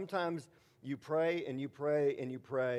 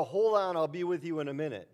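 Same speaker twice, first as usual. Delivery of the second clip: casual God reply; 3 semitones higher, 4 dB louder than usual. Retold or imitated. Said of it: "Or a".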